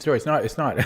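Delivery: laughing apology. Real, not acted. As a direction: laugh through the words. Realizes blunder, laughing.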